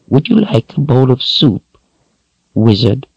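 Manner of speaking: high raspy crone voice; raspy old woman. A narrator's reading. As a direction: rasp it out like an old witch. Narrator voices Addie.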